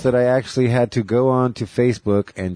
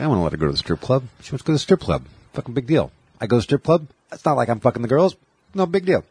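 Bill Burr rant; 2 semitones higher, much faster than usual. Retold or imitated. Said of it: "He talks like that".

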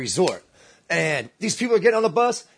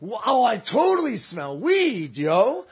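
higher, drawn-out mock amazement; amazed; 4 semitones higher, much slower than usual. Teller relives smelling weed on the bus, drawn-out amazement. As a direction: stretch it out in delighted disbelief.

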